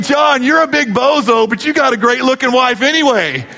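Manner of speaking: friend's dig said outright. Retold or imitated. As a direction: spell out the teasing meaning. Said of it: "what we're really saying".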